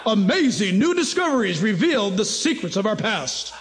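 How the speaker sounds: laughing announcer read; hammed-up broadcast promo voice; radio announcer voice. Shown as a demonstration. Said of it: "I almost sound like a radio announcer".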